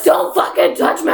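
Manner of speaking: a touch of a hammed-up angry snap; imitating her own pre-period rage, half-laughing; mock angry snap. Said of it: "I become the little anger guy from inside".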